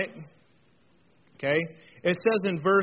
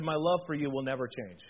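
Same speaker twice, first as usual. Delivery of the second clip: tender; 4 semitones lower, 3 dB quieter than usual. Retold or imitated. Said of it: "I said".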